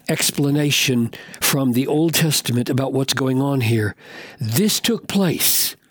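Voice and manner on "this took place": slow, stress on took; slow, weighty. Shown as a demonstration. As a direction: dwell on "This took place", leaning on took. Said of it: "slow repeated reading".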